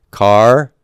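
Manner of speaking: "Kar," as a syllable on its own, followed by a break; isolated teaching syllable "Kar,"; syllable division. Shown as a demonstration. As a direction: say "Kar," alone, then pause. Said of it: "divide right in between them".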